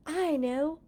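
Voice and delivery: sudden idea, burst it out; excited realization. Acted. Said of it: "he said".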